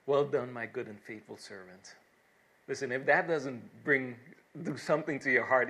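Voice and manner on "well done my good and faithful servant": low, measured words of welcome; solemn divine commendation. Acted. God to the faithful in heaven, solemn commendation. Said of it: "we all will hear that voice".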